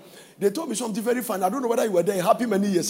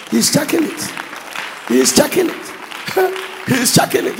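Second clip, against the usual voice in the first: louder, rising emphasis; emphatic repeat; 2 semitones higher, 4 dB louder than usual. Real, not acted. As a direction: drive it home twice. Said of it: "repeated emphatic".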